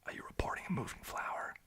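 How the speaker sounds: put-on soft American-accent quote. Streamer quoting their film character's line, soft American accent. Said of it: "my character is so American".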